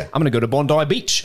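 playful put-on Australian accent. Reader joking about Bondi Beach, Australian accent. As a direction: toss it off in a jokey Australian accent. Showing off the accent after email.

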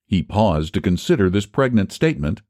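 ordinary delivery

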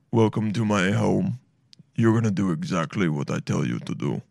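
deep, menacing serial killer voice; low, sinister like Buffalo Bill; creepy low voice. Retold or imitated. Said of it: "how do I make his, my voice even that low?".

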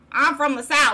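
put-on amateur Southern accent. Host claiming Southern roots, amateur Southern accent. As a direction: try on a Southern accent, badly. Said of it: "neither of us can do a Southern accent".

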